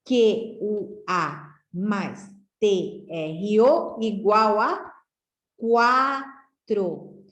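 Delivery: spelled out slowly, each letter set apart; slow letter-by-letter spelling. Shown as a demonstration. Teacher spelling quatro out for pupils, slowly. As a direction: build the word for the class piece by piece. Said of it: "de juntar as duas sílabas".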